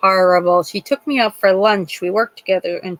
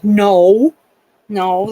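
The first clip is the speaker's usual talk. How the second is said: loud, retold reassuring no; emphatic denial; 6 dB louder than usual. Retelling reply to mom's fear, emphatic denial. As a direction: deny it firmly and loudly.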